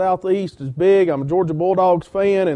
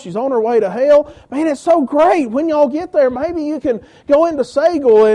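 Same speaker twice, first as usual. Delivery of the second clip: excited plea; 5 semitones higher than usual. Retold or imitated. Church lady pleading about her mother.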